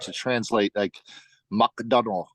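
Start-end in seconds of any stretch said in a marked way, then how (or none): 1.5-2.3 "McDonald" said as a katakana loanword; Japanese-style pronunciation. Shown as a demonstration. Showing how katakana renders a Western name, Japanese-style pronunciation. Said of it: "sounds very much like English, but it's with the".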